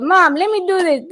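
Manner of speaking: high-pitched imitation of a child; lightly voiced eager kid; nine-year-old son. Nine-year-old offering mom help, high child voice.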